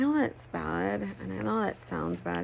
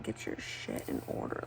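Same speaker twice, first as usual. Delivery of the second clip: mean to myself; 7 dB quieter than usual. Retold or imitated. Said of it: "I would be really mean to myself".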